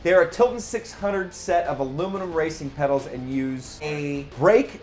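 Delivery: running out of breath; breathless from the long list. Real, not acted. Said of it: "I'm running out of breath here".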